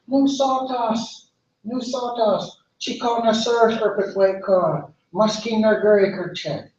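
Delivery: high, drawn-out refusal; dismissive refusal. Acted. Busy tanoak refuses the little bird, high and dismissive.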